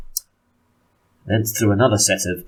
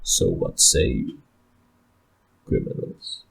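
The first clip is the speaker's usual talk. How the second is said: Ulfric's taunt; 9 semitones lower, 4 dB quieter than usual. Acted.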